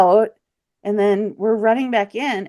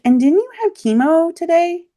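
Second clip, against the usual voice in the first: friend's voice pitched up, teasing; athletic friend, higher voice; 12 semitones higher, 4 dB louder than usual. Retold or imitated. Friend teasing her on dune hike, higher voice. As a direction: play the breathless friend, voice lifted high. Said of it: "She's like".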